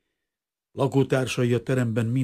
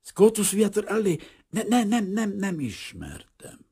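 panicked denial; 14 semitones higher, 3 dB louder than usual. A narrator's reading. Frightened denial to stranger.

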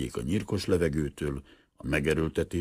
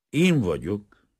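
higher, louder, a touch of wonder; mildly astonished; 5 semitones higher, 6 dB louder, slower than usual. A narrator's reading. Professor to an unexpected visitor, mildly astonished. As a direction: answer with understated surprise. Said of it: "felelte a professzor csodálkozva".

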